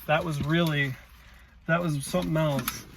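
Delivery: breathless, still catching breath; winded from the hill. Real, not acted. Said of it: "I'm so out of breath".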